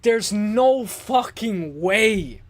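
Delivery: slow, stretched-out stunned disbelief; slow amazed remembered reaction; drawn-out disbelief. Retold or imitated. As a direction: drag it out like you can't believe the upset. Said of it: "I was like".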